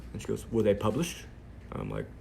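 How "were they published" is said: mock British accent. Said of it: "I'm doing her British accent".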